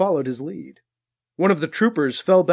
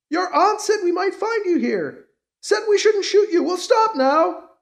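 trooper voice; 13 semitones higher than usual. Acted.

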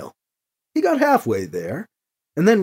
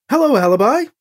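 lifted, louder cheerful greeting; cheerful, hopeful; 7 semitones higher, 5 dB louder, faster than usual. A narrator's reading. Emily greets Alibi before the big move, cheerful and hopeful. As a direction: greet with bright hope, pitched up. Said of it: "She sounded cheerful, hopeful".

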